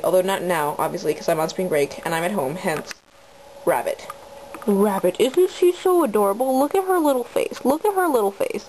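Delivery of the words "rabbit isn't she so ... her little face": overwhelmed by cuteness. Real, not acted. Gushing over rabbit.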